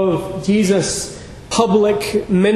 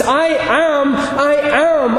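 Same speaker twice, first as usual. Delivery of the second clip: higher, ringing I am, building up; triumphant I am; 5 semitones higher, much slower than usual. Retold or imitated. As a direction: proclaim I am with rising force. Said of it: "He was saying".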